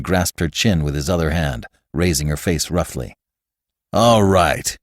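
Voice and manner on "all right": growl. Acted. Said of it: "he growled into her face".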